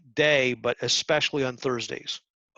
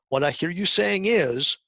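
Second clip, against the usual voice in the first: slow, deliberate model phrasing, a little higher and louder; model phrase; 5 semitones higher, 3 dB louder than usual. Shown as a demonstration. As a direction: spell out the key phrase slowly for the class. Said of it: "learn how to say this phrase".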